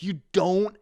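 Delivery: high, loud, slow incredulous sneer; mocking the director. Imitating the director scoffing at the crew, slow and sneering. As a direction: stretch it out in disbelief like a film snob. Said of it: "and he'd be like".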